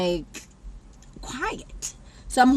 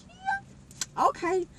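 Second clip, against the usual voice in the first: sarcastic okay; 6 dB quieter, much slower than usual. Retold or imitated. Reacting to friend leaving.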